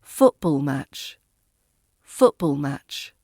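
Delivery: FOOT stressed in football match; football match, front-stressed and falling; first-word stress. Shown as a demonstration. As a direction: punch "foot", let ball match drop away. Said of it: "R P stress on the first word".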